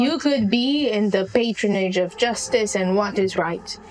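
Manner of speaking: a hint of an old crone, scornful; lightly voiced Venoris. Venoris scorning the captive girl, lightly voiced. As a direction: dismiss her like a weary old witch. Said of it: "the old crackling voice of Venoris".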